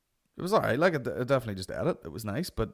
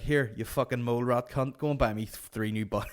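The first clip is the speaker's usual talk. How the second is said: mock anger cracking into laughter; half-serious angry demand; angry about buns. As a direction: pick a fight over buns, barely keeping a straight face. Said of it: "just getting so angry about buns".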